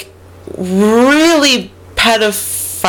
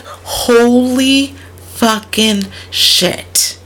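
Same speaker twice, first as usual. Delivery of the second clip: amazed; 5 semitones higher, much slower than usual. Retold or imitated. Preston amazed at the cash.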